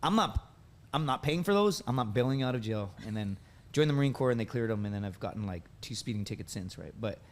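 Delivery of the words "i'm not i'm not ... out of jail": retold firm refusal from an angry mother; mildly angry imitation of mom laying down the law; mad mom. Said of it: "she's all mad at me".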